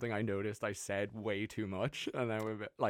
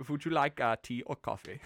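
put-on German accent. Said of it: "German accent".

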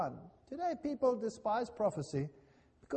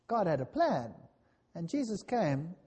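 ordinary delivery

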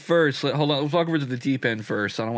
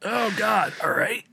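surprised; 9 semitones higher, slower than usual. Retold or imitated. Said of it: "I'm like".

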